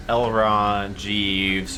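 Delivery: ordinary talk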